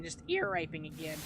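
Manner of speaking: accidental squeak in a grumble; voice crack. Real, not acted. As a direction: voice cracking mid-phrase. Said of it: "voice crack".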